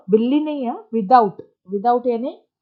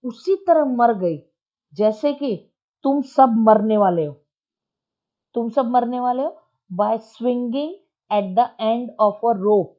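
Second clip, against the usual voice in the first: slow, loud menace; irritated threat; 4 dB louder than usual. Acted. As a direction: threaten them slowly in anger. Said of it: "चिढ़ कर उसने बोला".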